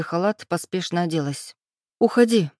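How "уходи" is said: raised, higher voice; sharp order to leave. Acted. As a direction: order him out firmly. Heroine orders him out. (героиня резко выгоняет его: повышенный голос)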